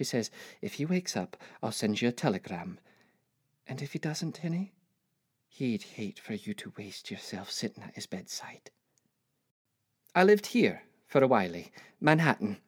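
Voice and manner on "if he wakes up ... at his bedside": gentle persuasion. Acted. Mother persuades daughter to leave.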